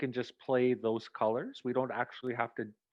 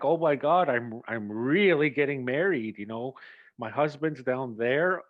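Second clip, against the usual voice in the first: mild nervous panic; 4 dB louder than usual. Retold or imitated. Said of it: "Claire has a nervous breakdown".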